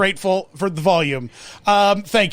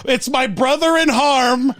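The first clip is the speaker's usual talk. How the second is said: booming echoing villain monologue; 5 semitones higher than usual. Acted. Haunted Mansion host parody.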